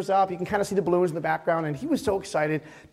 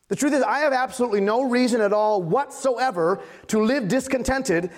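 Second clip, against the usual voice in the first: higher, emphatic sermon delivery; impassioned preaching; 6 semitones higher, 3 dB louder than usual. Acted. Pastor admitting discontent to his church, emphatic preaching. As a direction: drive the point home to the congregation.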